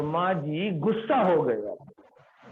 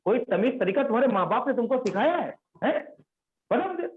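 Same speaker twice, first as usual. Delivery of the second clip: scolding; 4 semitones higher than usual. Retold or imitated. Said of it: "ऐसे उसको डांटना शुरू".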